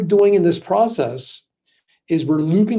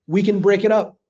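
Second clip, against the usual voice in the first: vague and noncommittal; 3 semitones higher than usual. Shown as a demonstration. Coach to class, offering a deliberately vague payment option. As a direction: leave it open, not committing to anything. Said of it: "I always say it like that, really ambiguous".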